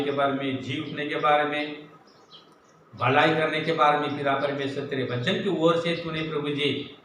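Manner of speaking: earnest spoken prayer in running phrases; closing prayer. Real, not acted. Preacher praying to God the Father for listeners, earnest prayer.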